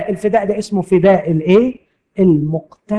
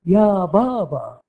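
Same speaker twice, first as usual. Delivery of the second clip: fondly coaxing; slower than usual. Acted. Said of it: "بدلال".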